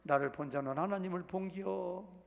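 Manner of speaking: 충청도 사투리로 본기요; Chungcheong dialect. Retold or imitated. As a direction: say 본기요 in a Chungcheong accent instead of 본 거야. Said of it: "충청도 말로".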